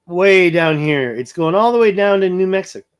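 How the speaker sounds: talking through hiccups; words interrupted by real hiccups. Real, not acted. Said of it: "Sorry, I'm hiccuping".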